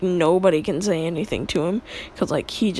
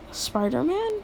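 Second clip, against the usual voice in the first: mock-amazed question, pitched up; 6 semitones higher than usual. Classmates doubting the hero's identity, mock amazement. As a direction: imitate a stunned classmate with a rising question. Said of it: "everybody's just, like, amazed".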